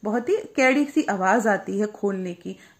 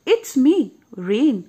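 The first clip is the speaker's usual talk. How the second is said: soft little voice; 2 semitones higher, 5 dB louder, much slower than usual. Acted. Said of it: "says a soft little voice".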